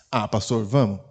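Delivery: low, limp "Ah, pastor, vamos." with no emphasis; a polite yes that means no; "vamos" dropped low and flat; unenthusiastic yes. Shown as a demonstration. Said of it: "falando sim, sem ênfase".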